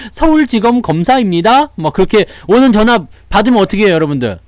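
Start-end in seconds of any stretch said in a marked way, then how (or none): 0.1-1.7 high-pitched mock official announcement; fake prosecutor. Scammer claiming to be a Seoul prosecutor, mock-official high voice. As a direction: pose as a prosecutor on a scam call. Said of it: "보이스피싱".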